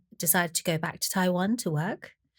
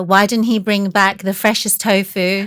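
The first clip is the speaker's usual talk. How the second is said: louder, scolding the grandfather about tofu; mock scold, voice pushed up; retold grandma shouting; 9 dB louder than usual. Grandma scolding grandfather over stale tofu, louder mock shout. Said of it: "shouting at my grandfather".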